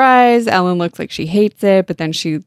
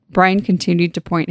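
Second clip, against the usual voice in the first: ordinary talk, nothing marked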